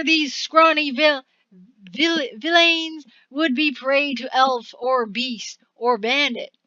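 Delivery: lordly speech. Acted. Voices noble speech from card.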